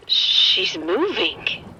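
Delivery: very slow, hushed horror; dread. Acted. Woman telling the sergeant the dead girl stirs, slow dread. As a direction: freeze in terror.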